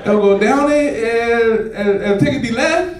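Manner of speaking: slow, halting fake-Spanish attempt; drawn-out questioning pseudo-Spanish; makeshift mock Spanish. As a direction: fumble through bad Spanish, stretching the words. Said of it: "I did the best Spanish I could do".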